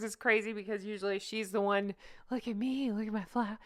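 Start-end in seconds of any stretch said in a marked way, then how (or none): 2.3-3.6 mock Megan. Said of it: "Sorry, I can do better".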